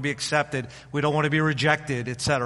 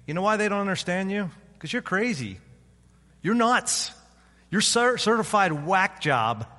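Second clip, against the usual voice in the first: mocking accuser; 5 semitones higher than usual. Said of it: "The demonic says to me".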